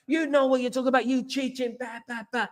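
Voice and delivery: high, hurried mock rant trailing away; imitated ballistic rant. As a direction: rattle off an imitated angry accusation. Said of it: "he went absolutely ballistic".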